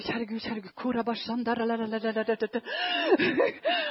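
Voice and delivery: soft puzzled stuttering breaking into a laugh; bewildered stammer. Retold or imitated. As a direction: trail off into laughter, lost for words. Her bewildered inner prayer.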